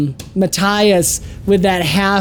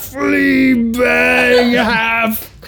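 shouting; 5 semitones higher, much slower than usual. Acted. GM acting out battle cry.

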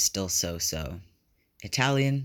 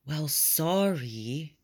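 sulky pout; 8 semitones higher, much slower than usual. A narrator's reading. Hinata sulking at Tobio.

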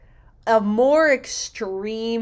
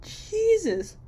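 exasperated mock exclaim; 5 semitones higher, much slower than usual. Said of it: "I'm just sitting there like".

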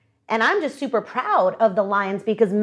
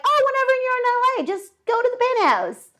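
breezy owner; 11 semitones higher, faster than usual. Retold or imitated. Owners voiced casually.

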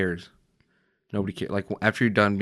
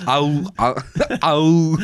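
Arnold-style yelp; 5 semitones higher, 4 dB louder, much slower than usual. Acted. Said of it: "that didn't sound like Arnold".

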